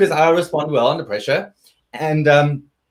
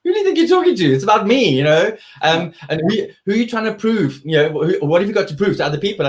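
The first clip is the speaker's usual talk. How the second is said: indignant retort; 5 semitones higher than usual. Retold or imitated. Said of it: "And I was like".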